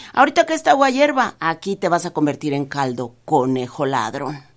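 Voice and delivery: a farmer savouring his revenge; gloating farmer. Acted. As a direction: campesino amenazando con burla. Farmer threatens caught rabbit.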